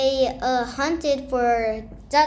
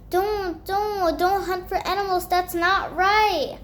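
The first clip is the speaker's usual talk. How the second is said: put-on higher child's voice warning against hunting; girl tells the boys don't hunt, higher pleading voice; girl's warning; 5 semitones higher than usual.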